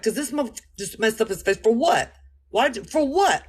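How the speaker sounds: rising mock outrage at a stranger's look; indignant outrage. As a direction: work yourself up over the stranger's face. Acting out indignant thoughts.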